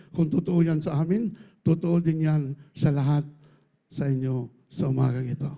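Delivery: ordinary talk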